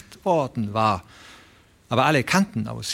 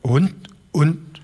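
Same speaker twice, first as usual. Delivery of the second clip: put-on higher, halting old man's voice; stammering old man; 6 semitones higher than usual. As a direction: stumble over the words like a frightened old man. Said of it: "stammelte der alte Broderson". (der alte Broderson stammelt verstört)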